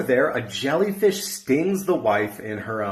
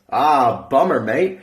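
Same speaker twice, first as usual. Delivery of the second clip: put-on Australian accent; 4 dB louder, much slower than usual. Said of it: "the Australian on the other side".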